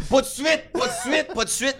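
high-pitched, repeated frantic call; retold panicked cry. Magician reenacts yelling from the box over music, panicked cry. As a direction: cry out like someone trapped, reenacted. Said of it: "je capotais parce que je criais".

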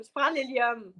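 squeaky helium voice. Shown as a demonstration. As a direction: talk like you sucked helium. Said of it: "ça, c'est une voix fatigante".

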